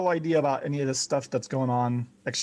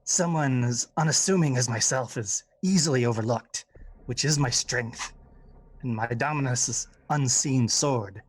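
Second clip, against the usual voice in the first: a hint of a sly goblin, ending in a hushed whisper; lightly voiced goblin hinting at murder. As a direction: lean in and let the menace slip out. Goblin answers Slish in character.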